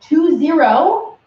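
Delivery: "two zero" said slowly, each digit separate; spelled out digits. Shown as a demonstration. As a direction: stress both digits of "two zero" apart. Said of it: "we're doing twenty".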